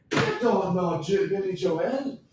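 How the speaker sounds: slow put-on Irish accent, rising at the end; playful amateur Irish accent. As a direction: try out an Irish lilt. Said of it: "that good at an Irish accent".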